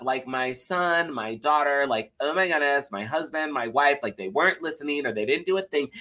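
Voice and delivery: lightly voiced complaining busy parent, some words slowed; a hint of a frazzled parent venting about the day. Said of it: "we'll call it a busy parent voice".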